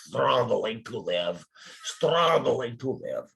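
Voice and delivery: slow, lightly Russian lament; Alex's Russian accent. Retold or imitated. Imitating Russian mail carrier Alex at the college, slow and weary. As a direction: drag out the words like a weary immigrant. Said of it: "He would say".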